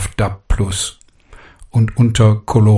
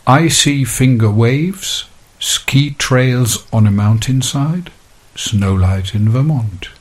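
slow, drawn-out verse reading; poem recitation; 2 semitones higher, slower than usual. Shown as a demonstration. Presenter reciting the second haiku strophe in English, slow poetic recitation. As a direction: recite each line slowly, settling down on the last.

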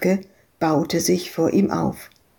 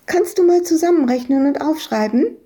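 put-on child voice; 9 semitones higher, 3 dB louder, faster than usual. Little girl Madita speaks.

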